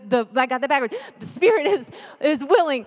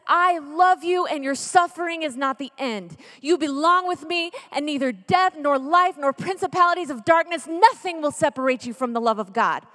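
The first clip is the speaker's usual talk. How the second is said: emphatic, raised preaching voice; impassioned assurance; 3 semitones higher, 3 dB louder than usual. Acted. Preacher voicing Jesus comforting the sufferer, impassioned. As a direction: declare it with full conviction.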